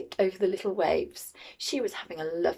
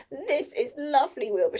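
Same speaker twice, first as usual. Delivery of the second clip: higher-pitched, lightly voiced pleasure; Winnie's delight; 6 semitones higher than usual. A narrator's reading. Winnie floating in her new pool, lightly delighted. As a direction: share contentment with the cat. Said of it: "she said".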